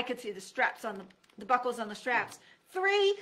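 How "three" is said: high loud shout of three; shouted count. A narrator's reading. Counting before the jump.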